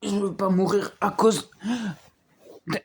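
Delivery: voix faible de malaise joué; saignement de nez. Acted. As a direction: parlez comme si vous saigniez du nez. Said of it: "je saigne du nez". (saigne du nez, faible et paniqué)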